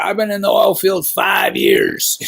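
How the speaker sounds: high, slow mock boast shouted; hammed-up tough-guy shout. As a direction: lampoon a bragging oil field veteran. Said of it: "there's a lot of people out there".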